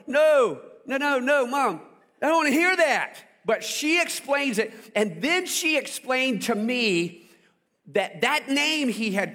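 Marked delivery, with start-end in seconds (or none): 0.1-3.2 high, loud, fast pleading no no no; a kid desperate to stop the talk; panicked boy. Retold or imitated. Boy begs mom to stop explaining, loud and high. Boy refusing facts of life.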